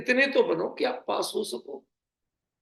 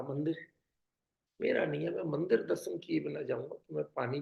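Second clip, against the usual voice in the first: polite pleading; 4 semitones lower, 6 dB quieter than usual. Retold or imitated. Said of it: "बड़े प्यार से".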